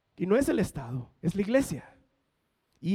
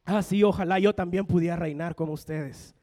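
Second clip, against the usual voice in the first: sarcastic. Retold or imitated. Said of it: "sarcásticamente les dice".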